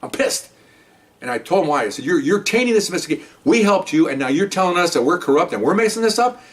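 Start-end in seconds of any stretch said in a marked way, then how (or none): 2.0-6.4 higher, indignant retelling; angry officer telling off his superiors, higher and heated; heated retold reproach. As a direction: push back hard on the captains. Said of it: "I am so hot, I can't even talk".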